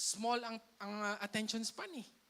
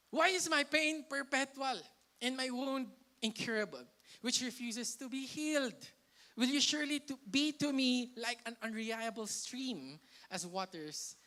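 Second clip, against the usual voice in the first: louder, mildly angry lament to God; indignant complaint; 2 semitones higher, 3 dB louder than usual. Acted. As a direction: read it as Jeremiah protesting his pain to the Lord. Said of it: "Galit na galit ako".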